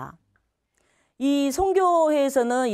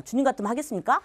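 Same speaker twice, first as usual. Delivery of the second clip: laughing protest; 2 semitones higher, much faster than usual. Retold or imitated. Mock protest to God, laughing.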